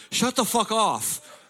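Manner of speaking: put-on high, slow drawn-out old dad snap; imitating angry dad. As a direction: play the dad yelling his wrong phrase. Dad's wrong saying voiced.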